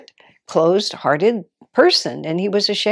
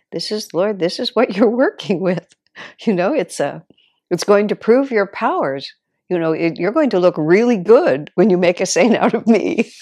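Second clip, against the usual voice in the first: laughing prayer; 4 dB louder than usual. Acted.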